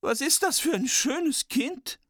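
very high, slow dwarf in wonder; awed dwarf. Acted. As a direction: marvel at the child as a dwarf. Dwarves admire Snow White.

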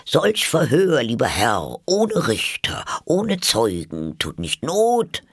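high, slow singsong objection; protesting mouse. A narrator's reading. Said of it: "Sprach die Maus zum Köter".

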